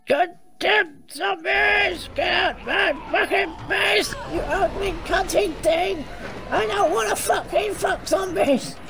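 slow, furious yelling at zombies; angry shout. Real, not acted. Player swarmed by zombies, yelling at them in disgust. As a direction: bellow at the horde in disgust.

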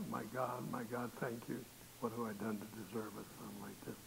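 soft, low retold prayer; hushed prayer. Mother face down in prayer over her son, hushed. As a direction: lightly imitate a mother praying quietly.

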